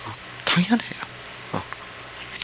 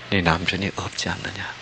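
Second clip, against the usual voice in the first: softer, lower, pitying question; compassionate; 5 semitones lower, 9 dB quieter than usual. Acted. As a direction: gently say he knows she has none. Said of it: "동정하시면서". (동정하듯 부드럽고 낮게)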